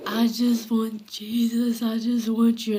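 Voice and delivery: breathy whisper, slow and aching; tearful whispered plea. Retold or imitated. Inmate reliving a night of weeping on cell floor, slow whisper. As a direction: whisper it like a broken prayer. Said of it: "and I'm crying".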